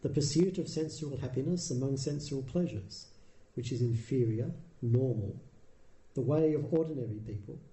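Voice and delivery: put-on measured recitation of an old text; scripture reading. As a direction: read it like a sacred text, evenly. Reads the Buddha's discourse.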